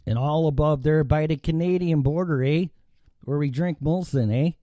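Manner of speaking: light mock Canadian accent. Host describes Molson drinkers up north, mock Canadian accent. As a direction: put on a border-country Canadian accent with "eh". Imitates Canadian border talk.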